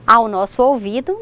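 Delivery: ordinary talk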